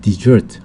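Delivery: de-SERT, weight on the end, slow; desert as verb, stress at the end; stress on the second syllable. Shown as a demonstration. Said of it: "강세가 뒤에 가면".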